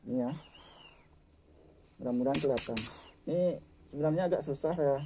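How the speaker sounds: speaking through a face mask; muffled by a face mask. Real, not acted. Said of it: "Ini saya pakai masker jadi agak susah untuk ngomong".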